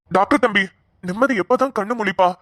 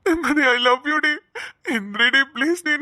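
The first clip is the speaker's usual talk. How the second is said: slow sobbing plea. Acted. Weeping over unconscious lover.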